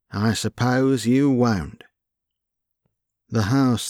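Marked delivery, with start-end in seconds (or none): 0.1-1.8 slow, resigned shrug in the voice; philosophical. Acted. Albert shrugging off the refused advance, slow and philosophical. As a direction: accept it with a slow, patient sigh. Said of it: "said Albert philosophically".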